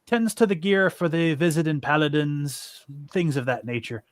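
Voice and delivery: a weird, loose attempt at an Irish lilt; hint of an Irish accent; almost Irish accent. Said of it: "a weird, almost Irish accent for him".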